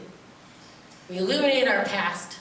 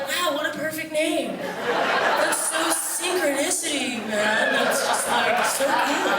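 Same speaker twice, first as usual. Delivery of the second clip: higher, slow dreamy gushing; imagined West Coaster gushing, higher and dreamy; mock hippie; 4 semitones higher, slower than usual. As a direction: laugh through a spacey compliment. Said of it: "there's none of this like".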